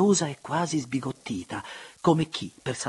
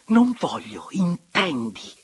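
high, loud protest, drawn out; distraught cry of refusal; desperate refusal; 7 semitones higher, 7 dB louder, slower than usual. A narrator's reading. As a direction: push him away with the voice. Trembling woman pushes him away.

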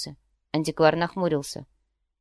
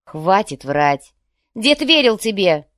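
furious shout; 7 dB louder, slower than usual. Acted. Furious quarrel over grandfather.

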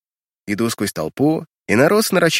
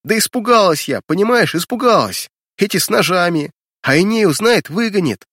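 higher, louder frightened crying out; 7 semitones higher, 4 dB louder than usual. Acted. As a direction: shout it through tears. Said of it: "она заходится криком".

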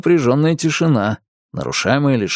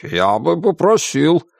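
offended; 4 semitones higher, slower than usual. Acted. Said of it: "обиженно вскипела варево в котле".

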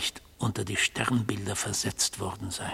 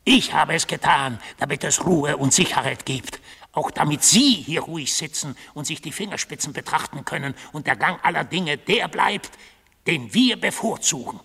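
rising outburst; 4 semitones higher, 5 dB louder than usual. Acted. Furious confession to the judge.

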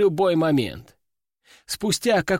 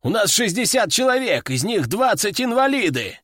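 higher, angry protest; angry outburst; 5 semitones higher than usual. Acted. Veteran raging at the pilot over his men, angry. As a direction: hurl the numbers at him in anger.

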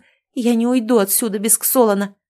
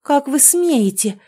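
spiteful hiss; 6 semitones higher, 3 dB louder, slower than usual. Acted. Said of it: "злобно прошипела я".

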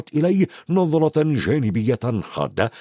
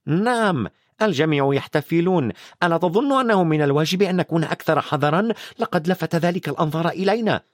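higher, fast impatient witch; 5 semitones higher than usual. Acted. McGonagall scolds Dumbledore about careless celebrating, impatient. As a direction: hurry it out, she has no patience. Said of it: "قالت بنفاد صبر".

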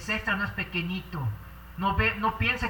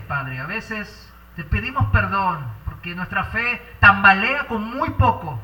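earnest pastor's prayer, swelling and fading; fervent prayer; 6 dB louder than usual. Acted. Pastor praying aloud for the congregation, fervent and earnest. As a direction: pour out the prayer to the Father.

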